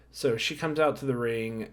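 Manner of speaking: normal talking voice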